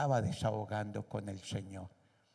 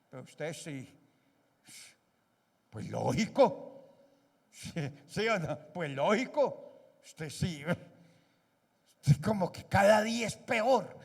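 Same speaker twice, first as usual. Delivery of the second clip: spouses bickering; 4 semitones higher than usual. Acted. Acted quarrel between spouses.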